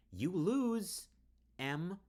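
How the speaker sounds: high, very loud triumphant cry; gloating shout. Acted. Riley gloating as everything burns, high loud cry. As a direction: crow the win over her.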